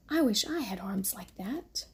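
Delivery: whisper. Acted. Mother whispering the little hare's thought to her baby. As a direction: breathe the wish out under your breath.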